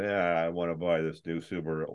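low, soft couch-lounging ad read; hyper-casual, lying-on-the-sofa delivery; so laid back. Acted. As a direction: toss it off lazily, barely projecting. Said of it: "lying on the couch going".

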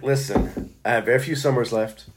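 low, hushed confession, played for laughs; mock vulnerable. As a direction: put on a pitiful, vulnerable plea. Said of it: "I'm gonna do the vulnerable".

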